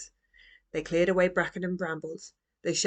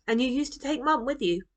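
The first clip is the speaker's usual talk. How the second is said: put-on higher, bright young girl voice; child's voice; 7 semitones higher than usual. A narrator's reading. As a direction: ask like an eager little girl. Roo asks Grandpa.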